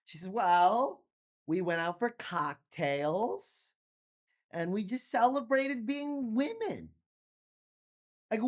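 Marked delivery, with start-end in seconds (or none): 0.3-6.9 put-on slow tipsy girlfriend voice; drunk slurring. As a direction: drag it out, lightly drunk.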